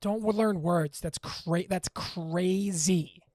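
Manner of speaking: loud exasperation, stretching the last word; getting mad. Real, not acted. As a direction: rant in real frustration, dragging out "crazy". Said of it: "sorry I got mad".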